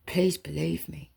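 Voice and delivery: soft pleading whisper; whispered plea. Real, not acted. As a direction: breathe the plea, barely voiced.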